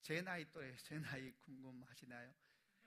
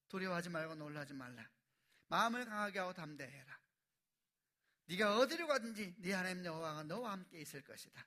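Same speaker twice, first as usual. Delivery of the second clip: loud, declaring scripture; solemn scripture recitation; 3 semitones higher, 10 dB louder than usual. Real, not acted. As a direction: proclaim the verse.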